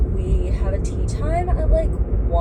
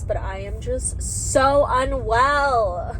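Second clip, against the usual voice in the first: slow, louder, voice on the edge of crying; near tears; 3 semitones higher, 4 dB louder, much slower than usual. Real, not acted. Vlogger confessing she feels unwell, close to tears. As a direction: let the tears almost break through, slowly. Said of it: "I might cry because".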